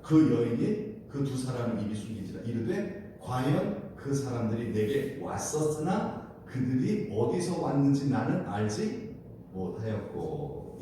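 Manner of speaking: slow, measured verse reading; scripture reading. Acted. Preacher reads the Bible verse to the congregation, slow and measured. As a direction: read the verse out slowly for all to follow.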